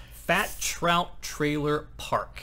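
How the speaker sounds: slow, grand title announcement; announcer title read. Acted. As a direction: say it like a title card. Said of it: "announcing location title".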